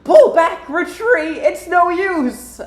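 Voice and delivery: high, loud cartoon villain cry; hammed-up villain in defeat; Eggman impression. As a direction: call a panicked retreat, stretching the last words. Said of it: "That was actually really close to that".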